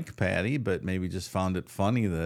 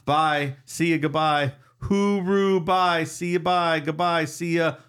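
high, louder string of goodbyes; singsong farewells; 8 semitones higher, 5 dB louder, slower than usual. Acted. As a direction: call out cheery byes over and over. Reads repeated goodbyes.

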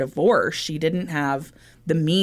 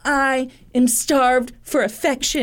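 mock husband voice; 8 semitones higher than usual. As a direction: play the whiny excuse-making husband. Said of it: "he was like".

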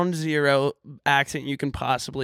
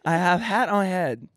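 broken English; 5 semitones higher, slower than usual. Pretend. Mock broken English bit.

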